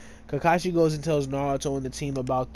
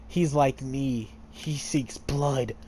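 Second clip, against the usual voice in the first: slow, dark and menacing; slowly, like something dangerous stirring; lightly voiced eerie killer; ominous Gaara; much slower than usual.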